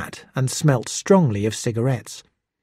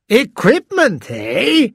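higher, louder, slow pounce on "Equipment"; sharp interest; 11 semitones higher, 3 dB louder, much slower than usual. A narrator's reading. Detective breaking in on Hiro, suddenly interested. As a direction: seize on the word. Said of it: "the detective broke in".

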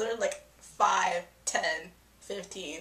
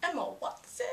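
swooning rise; 8 semitones higher, 6 dB quieter than usual. Real, not acted. Swooning over Emma Watson.

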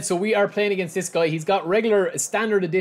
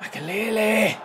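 call out; 5 semitones higher, slower than usual. Real, not acted. Calling defender.

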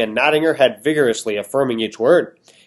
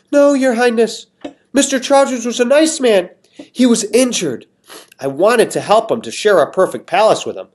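high, pleading lady voice; begging woman; 9 semitones higher than usual. Acted. Missus Molasses begging the king, high and pleading. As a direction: plead her innocence desperately.

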